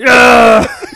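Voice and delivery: sudden high panicked shout; panicked yell. Retold or imitated. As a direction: yelp it out in panic. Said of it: "his little fucking arms are like".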